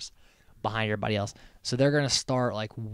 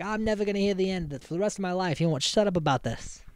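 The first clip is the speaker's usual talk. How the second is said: mock whine; 6 semitones higher, faster than usual. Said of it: "he's like".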